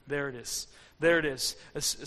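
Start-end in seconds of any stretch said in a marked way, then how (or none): 0.1-0.7 low and soft, like a secret found; hushed reveal. Acted. Preacher revealing God's gentle whisper, low and soft. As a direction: breathe it out quietly.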